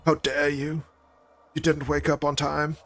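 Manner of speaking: put-on high, indignant scolding of a child; an activist turned mother scolding her child for oversleeping; mock scolding mother. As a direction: scold the kids like an outraged young activist mom. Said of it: "It's gonna be like".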